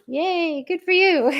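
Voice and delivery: high, happy cheer breaking into a laugh. Real, not acted. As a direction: cheer the winner while laughing. Cheering a listener who won.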